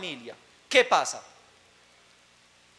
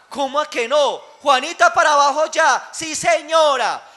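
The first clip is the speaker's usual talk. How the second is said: commanding director; 3 semitones higher, 5 dB louder than usual. Acted. Director orders child down, child obeys.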